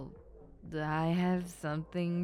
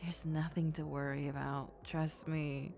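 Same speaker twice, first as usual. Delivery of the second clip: hushed and soothing; calm them down in a whisper; soft reassuring whisper; 4 dB quieter than usual. Acted. Reassuring the worried listener.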